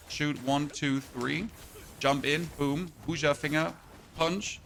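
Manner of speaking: short move callouts with rising ends; combat play-by-play. Real, not acted. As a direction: call each move as you play it, pausing between. Calls out combat moves while playing.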